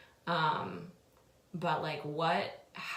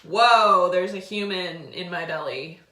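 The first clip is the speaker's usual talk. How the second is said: insistent awe; 11 dB louder than usual. Retold or imitated. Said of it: "I'm like".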